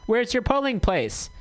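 high-pitched accidental near-yell; unintended yelling. Real, not acted. Radio host asks listeners about their polling place, yelling unintentionally. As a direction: call it out high, a bit too forcefully. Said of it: "Why am I yelling? I'm not meaning to yell".

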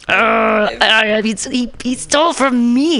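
choking up while telling it; real tearful. Real, not acted. Real crying about theft.

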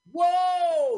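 loud, high shocked whoa; surprised whoa. Real, not acted. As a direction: blurt out your shock. Reacting to a topless scene.

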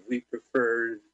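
mock French accent on a movie quote. Friend retelling a movie joke, mock French accent. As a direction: say it like a cheesy French frogman. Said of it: "with a French accent".

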